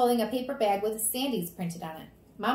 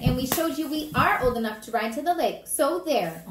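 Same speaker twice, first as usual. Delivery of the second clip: higher, louder bragging; defiant child; 5 semitones higher, 7 dB louder than usual. Acted. Fudge proving himself to parents, cockily defiant. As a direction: crow it at the grown-ups.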